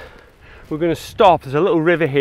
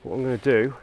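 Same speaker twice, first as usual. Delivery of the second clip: hushed, low voice, much softer; Morton voice; 4 semitones lower, 10 dB quieter than usual. Acted. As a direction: keep it very soft, as if watching deer nearby. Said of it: "I'll do my Morton voice".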